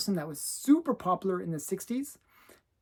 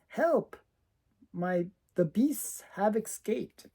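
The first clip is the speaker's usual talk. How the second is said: damsel in distress; 3 semitones higher, slower than usual. Retold or imitated. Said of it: "the girl saying".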